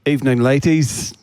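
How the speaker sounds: put-on British gentleman's greeting; polite British-accented salutation. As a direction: greet them formally in a mock British accent. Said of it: "saddling me with the British accent".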